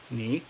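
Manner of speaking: "ni" with a rising tone; short demo "ni", gliding upward; second tone. Shown as a demonstration. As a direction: lift the pitch through "ni". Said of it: "third tone in ni turns into second tone".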